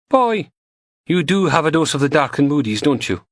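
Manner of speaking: a hint of a cheeky goth lab tech; Samantha voiced. A narrator's reading. Goth tech teasing Logan over coffee, lightly voiced.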